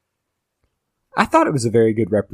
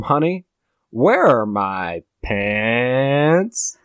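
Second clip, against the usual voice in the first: drawn-out whiny husband; 3 semitones higher, 3 dB louder, much slower than usual. Shown as a demonstration. Husband calling to his wife for his pants, slow and drawn out. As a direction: stretch it out like a helpless husband calling. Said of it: "Which is different from".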